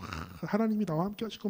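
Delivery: ordinary delivery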